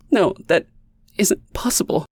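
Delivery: high, stunned disbelief; shocked denial. A narrator's reading. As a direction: gasp it out in disbelief.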